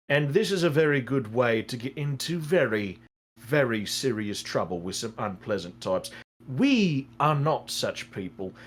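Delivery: measured warning to a gambler; earnest advisor Arno. Acted. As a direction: counsel firmly, without shouting.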